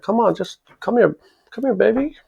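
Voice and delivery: mock flirt. Teasing the mafia guy.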